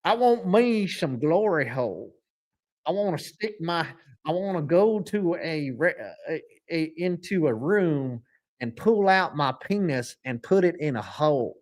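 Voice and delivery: lightly voiced Southern impression; mock Southern big-shot, lightly done; Jerry Jones. Shown as a demonstration. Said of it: "I'm Jerry Jones".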